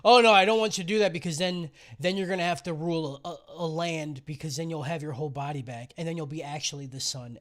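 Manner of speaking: melodramatic parent. Retold or imitated. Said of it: "really bad kind of drama".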